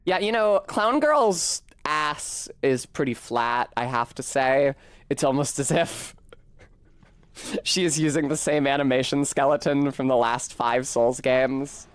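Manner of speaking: lightly played ditzy bimbo; a hint of a gum-smacking floozy. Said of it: "bimbo voice terminated".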